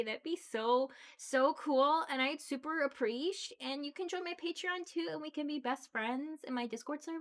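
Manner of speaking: put-on bubbly valley girl begging for tips; ditzy LA valley girl. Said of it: "I definitely can pull that shit when I want to".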